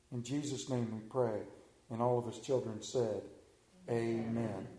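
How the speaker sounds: earnest, measured pastor's prayer; opening prayer before the sermon. Acted. Leads congregation in prayer.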